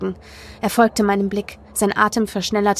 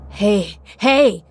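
snapping at someone; 4 dB louder than usual. A narrator's reading. Boy snapping at his sobbing friend, sharp. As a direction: snap to get their attention. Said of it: "fuhr Kit mich an".

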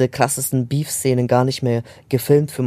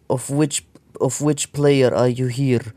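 imitating a Croatian accent in English; slower than usual. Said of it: "so mit so kroatischen, englischen Akzent".

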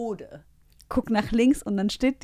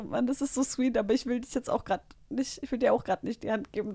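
inner thought; 2 semitones higher, 6 dB quieter than usual. Retold or imitated. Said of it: "Dachte ich mir nur so".

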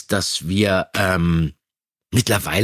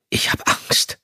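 an almost voiceless, fearful murmur; slower than usual. Acted. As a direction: mumble the fear under your breath. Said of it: "murmelte Bob schließlich". (ängstlich gemurmelt, fast tonlos)

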